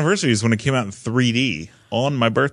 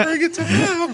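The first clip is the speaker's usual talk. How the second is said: very high squeaky repeat through laughter; laughing squeal. Real, not acted. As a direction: squeal it while cracking up.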